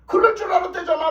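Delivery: mocking astonished repeat; laughing disbelief. Real, not acted. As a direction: repeat "그럴 줄 알았대잖아" incredulous and amused. Repeats phrase, second more emphatic.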